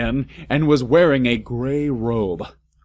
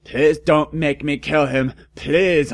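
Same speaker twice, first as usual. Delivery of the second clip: begging; 4 semitones higher, 4 dB louder than usual. A narrator's reading. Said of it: "I begged".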